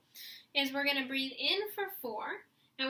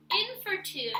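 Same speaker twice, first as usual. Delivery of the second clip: counting in; 6 semitones higher, 5 dB louder than usual. Shown as a demonstration. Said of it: "set my metronome so we can have a beat".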